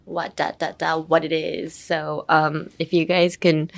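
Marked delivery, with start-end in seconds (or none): 0.0-1.7 WHAT DA DA DA in low even beats, echoed by WHAT IT IS; same intonation. Shown as a demonstration. Teacher comparing it with a pop group's song, matching rhythmic intonation. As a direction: give WHAT IT IS the beat of WHAT DA DA DA. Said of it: "has the same intonation".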